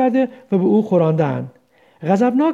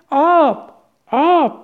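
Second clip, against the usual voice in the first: a pitched-up cry for water, raised high; shouted; 7 semitones higher, much slower than usual. Acted. Parched prisoner cries out to his jailers for water, shouting. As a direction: call out for water, high and strained. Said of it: "فریاد کشید".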